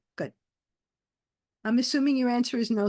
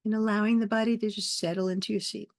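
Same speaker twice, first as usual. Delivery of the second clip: guided meditation. Acted. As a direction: lead them gently into the breath, unhurried.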